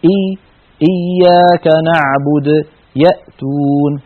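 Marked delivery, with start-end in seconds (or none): 0.9-2.5 إياك نعبد slow, with a light, easy hamza; slow correct reading of إياك نعبد; smooth hamza. Shown as a demonstration. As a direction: glide into إياك نعبد without throat pressure. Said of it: "بل تنطق الهمزة بسهولة وسلاسة".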